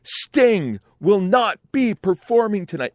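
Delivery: put-on high Irish-accented stage announcement; mock Irish rock-star voice; Irish accent. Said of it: "this is my Irish accent".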